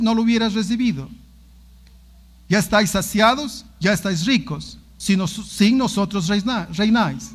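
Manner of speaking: loud, solemn Bible reading; scripture reading. Acted. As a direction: proclaim the verse to the congregation. Lectura bíblica en voz alta. (lectura solemne y fuerte de la Biblia)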